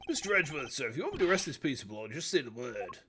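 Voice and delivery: deferential sidekick. Acted. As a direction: offer it up as the loyal underling. Voices a subordinate to Edgeworth.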